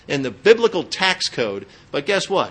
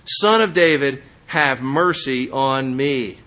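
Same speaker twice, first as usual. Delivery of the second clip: louder, slow plea for mercy; crying out; 4 dB louder, slower than usual. Retold or imitated. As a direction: call out to Jesus, drawn out and pleading. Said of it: "he kept crying out what?".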